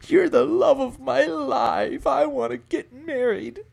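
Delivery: high, slow, whiny lovesick plea; mock lovesick guy. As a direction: ham up a weepy desperate proposal. Guy crying, proposing on day five.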